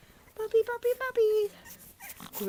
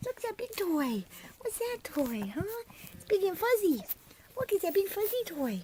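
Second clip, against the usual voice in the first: puppy talk; 10 semitones higher than usual. Real, not acted. Owner showing a big toy to puppies, high. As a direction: coo over the fuzzy toy.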